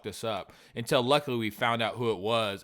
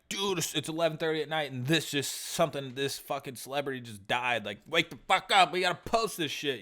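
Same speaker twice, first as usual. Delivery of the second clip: jolting a friend awake, pitched up; urgent wake-up call; 4 semitones higher than usual. Retold or imitated. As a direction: act out an urgent late-night alarm. Voices frantic late-night wake-up call.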